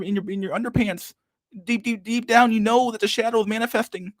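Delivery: Jordan Peterson impression. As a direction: parody a grave self-help lecturer rambling. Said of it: "he just talks in, like, gibberish".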